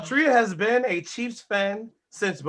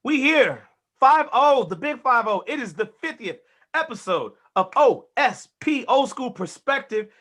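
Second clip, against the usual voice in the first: punchy host intro, stretched phrase endings; show opener; 3 semitones higher, 5 dB louder than usual. Real, not acted.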